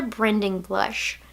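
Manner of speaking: "blending blush" slurred as "brending blush"; mixed-up sounds in "blending blush"; tongue slip. Real, not acted. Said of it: "It's like I mixed up the words".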